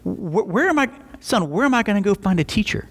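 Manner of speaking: high, rushed, stammering worry; frantic panic. Retold or imitated. Young staffer to his dad about missing teachers, frantic high-pitched rush. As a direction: fire off the questions in a flustered rush. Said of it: "he's like".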